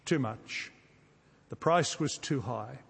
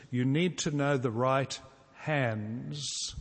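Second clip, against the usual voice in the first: slow and deliberate; slower than usual. Shown as a demonstration. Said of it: "it goes like this".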